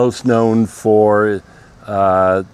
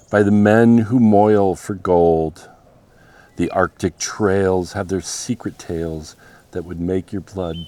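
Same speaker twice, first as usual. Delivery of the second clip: poem recitation. Acted. Reads Robert Service poem aloud.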